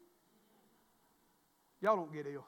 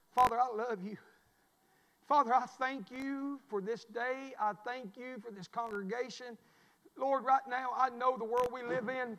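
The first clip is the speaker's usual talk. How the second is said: pastor's prayer. Real, not acted. Opens a prayer.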